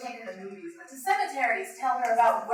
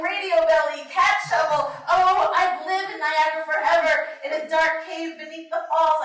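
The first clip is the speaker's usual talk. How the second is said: yelling; 3 semitones higher, 6 dB louder than usual. Pretend.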